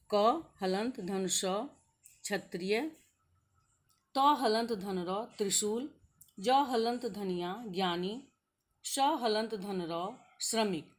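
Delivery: slow, deliberate letter breakdown of each cluster; teacher slowly building conjunct letters; slow spelling out. Shown as a demonstration. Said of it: "जैसे".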